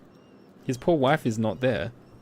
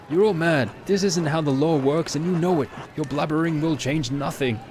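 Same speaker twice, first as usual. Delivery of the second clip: higher, louder, indignant reproach; angry outburst; 5 semitones higher, 3 dB louder than usual. Acted. Townsman shouting at the mob: furious reproach. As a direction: scold the mob for breaking the law. Voiced NPC confronts angry crowd.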